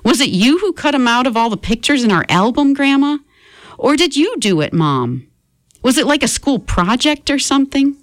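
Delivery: Eugenie. Acted. Boy confronting family.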